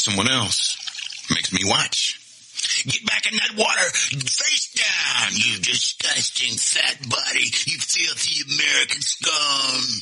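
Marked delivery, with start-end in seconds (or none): 2.8-10.0 high, strained yell slowing into drawn-out insults; drill-instructor tirade with stretched words; shouted instructor's order. Acted. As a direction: berate a trainee at full shout. Instructor's order in an acted story.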